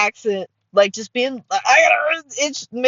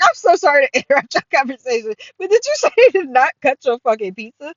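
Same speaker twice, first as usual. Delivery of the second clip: higher-pitched incredulous question; acted disbelief; 4 semitones higher, 3 dB louder, faster than usual. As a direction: butt in, aghast on someone's behalf. Acting out her incredulous interruption.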